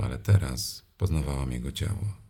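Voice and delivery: usual speaking voice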